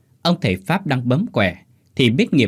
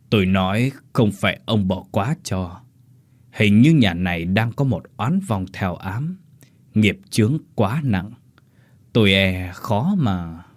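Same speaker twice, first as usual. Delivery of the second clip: sorcerer's voice; slower than usual. Acted. Sorcerer character voice.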